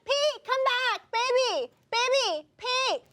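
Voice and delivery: high longing calls after him; calling out. Acted. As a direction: call him back, pleading. Calling after Pete, higher voice.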